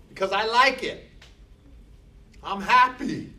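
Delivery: growing pep talk to oneself; building resolve. Pretend. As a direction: talk yourself up until you're thrilled. Somebody who says.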